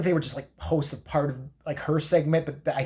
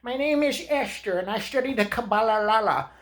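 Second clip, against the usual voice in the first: mock a pop star; 7 semitones higher than usual. Comic parodying a pop star's tweet in her voice. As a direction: pronounce it like a self-important diva.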